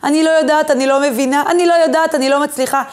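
a mild imitation of a hunched, fearful woman; helpless frightened woman. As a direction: play a cowering, scared woman begging for help. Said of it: "היא לא הולכת כפופה ומפוחדת".

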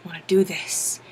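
put-on low soft sulky kid; whiny kid. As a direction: mumble it like a sulking boy. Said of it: "He's like".

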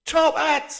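put-on high, delighted old man; light up at the memory; brightening up. A narrator's reading. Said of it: "The old man brightened suddenly".

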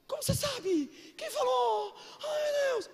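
put-on high, flustered girl voice; mock shocked girl. Young woman shocked at the pastor's prophecy, high squeal. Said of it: "E a menina assim".

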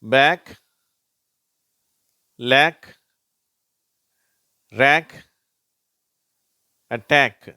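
"பேக், லேக், ரேக், அட்டாக்" loud, each ending in a crisp k; word-list demo. Shown as a demonstration. Teacher showing learners the CK sound, "பேக், லேக், ரேக், அட்டாக்" as loud separate words. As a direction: read "பேக், லேக், ரேக், அட்டாக்" one by one, loudly, with long pauses. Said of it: "அது இக்கு அப்படின்னு தான் உச்சரிக்கப்படுது".

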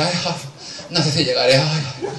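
quejido flojo entre suspiros; agotada, fingido. Retold or imitated. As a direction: imita a quien cree que no llega. Imita a la agotada viajera. (lamento fingido, apagándose al final)

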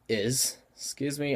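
hiccup breaking the words. Real, not acted. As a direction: says it between hiccups. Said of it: "I got the hiccups going on right now".

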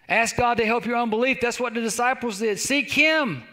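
urgent pulpit litany; driving preaching. Acted. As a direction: drive each phrase home to the congregation.

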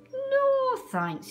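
high loud barked no. A narrator's reading. Dog refuses the mouse, barked no. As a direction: bark it short. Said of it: "he barked".

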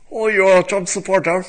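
loud high mock of an outraged tweeter; full-beard liberal impression. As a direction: go all in on a sneering leftist caricature. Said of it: "We're gonna go full beard here".

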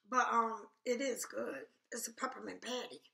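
talking through a mouthful; mouth full. Real, not acted. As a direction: still chewing candy. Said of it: "I'm sorry I'm eating".

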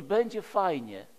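ordinary delivery

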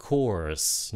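Kors with a hissed s at the end; final s. Shown as a demonstration. Teacher models the final s of Kors. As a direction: finish Kors on the s. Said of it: "Nhớ xì".

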